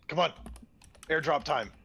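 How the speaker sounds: ordinary talk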